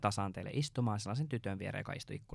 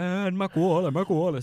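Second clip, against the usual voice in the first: high, loud cry of pain; mock dying wail; 9 semitones higher, 11 dB louder, slower than usual. To the bus driver, a high loud pained wail.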